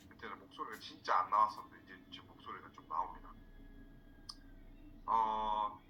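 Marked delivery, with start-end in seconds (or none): 1.8-3.3 hoarse voice from a cold. Real, not acted. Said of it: "목소리가 안 나와서".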